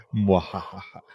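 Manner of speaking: evil villain cackle; mustache twirling villain. Pretend. Villain laugh after sowing doubt.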